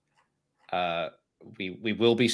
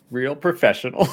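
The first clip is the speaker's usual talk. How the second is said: sarcastic; 4 semitones higher, 7 dB louder than usual. Real, not acted. Teasing co-host for eating on mic.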